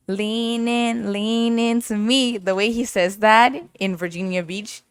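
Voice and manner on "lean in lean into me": imitating a rapper.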